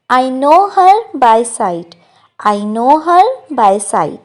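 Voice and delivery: very slow, careful English model line; slow model sentence. Shown as a demonstration. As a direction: say each word slowly for learners. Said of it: "तो हम कहते". (धीरे-धीरे साफ़ बोला गया वाक्य)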